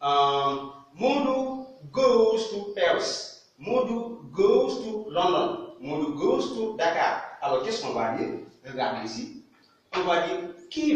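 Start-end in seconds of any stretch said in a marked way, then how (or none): 0.9-7.2 teaching pronunciation. Shown as a demonstration.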